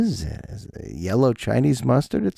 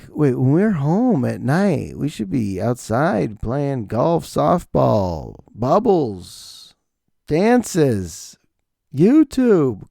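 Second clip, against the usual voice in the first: drawn-out protest; slower than usual. Acted. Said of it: "and I'm like".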